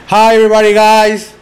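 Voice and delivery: loud, showy English greeting like a teacher who barely speaks it; mocking show-off English teacher. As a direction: ham up the pompous teacher strutting in with his English. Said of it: "hablaba así como que no sé qué".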